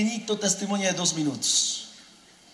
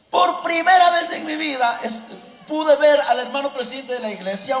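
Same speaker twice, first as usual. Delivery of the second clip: raised, higher proclaiming voice; preaching shout; 4 semitones higher than usual. Real, not acted. Preacher exclaiming to the congregation, raised shouting voice. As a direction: call it out to the whole church.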